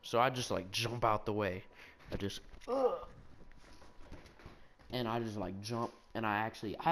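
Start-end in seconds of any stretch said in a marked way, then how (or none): 2.7-3.1 high, strained "ugh" of a dodge; effortful grunt. Retold or imitated. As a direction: grunt as if leaping out of the way. Mimes his dodging jump.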